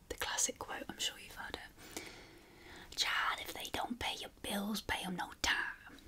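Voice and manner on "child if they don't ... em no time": put-on whispered American Southern accent. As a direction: lightly put on a South Carolina old lady's accent. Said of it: "say that in an American accent".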